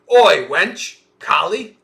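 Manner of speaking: loud, high mistress holler; calling out. Acted. Acted mistress calling her maid.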